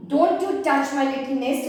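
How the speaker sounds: "Don't" hit firmly at the start of the warning; a firm warning with "Don't" stressed. Shown as a demonstration. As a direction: lean on "Don't" as a stern warning. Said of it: "give more stress on the words".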